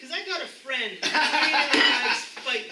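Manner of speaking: sleazy come-on. Acted. Improv bachelor sleazy come-on.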